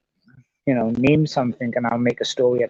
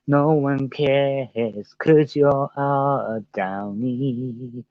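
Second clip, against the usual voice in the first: troll voice; much slower than usual. Pretend. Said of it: "I'm sure the trolls will be in here".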